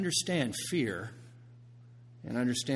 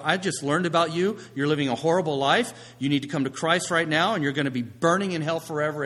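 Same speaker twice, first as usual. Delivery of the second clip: mock overzealous warning, louder; pushy; 3 semitones higher, 5 dB louder than usual. Zealot phoning family to convert them, mock pushy and loud. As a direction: press them hard in a mock-urgent telling-off.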